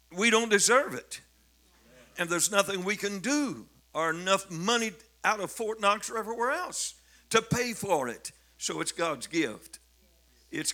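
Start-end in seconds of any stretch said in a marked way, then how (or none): 0.1-8.3 higher, louder impassioned preaching; rising fervor. Acted. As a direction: lift the voice with conviction.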